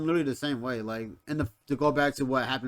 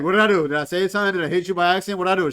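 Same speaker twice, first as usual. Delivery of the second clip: louder, higher run of baffled questions; mock panicked pleading; 4 semitones higher, 7 dB louder, much faster than usual. Retelling waking up to an accusation, mock panicked questions. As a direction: plead to know your offence, playing it up. Acting out his bewildered pleading.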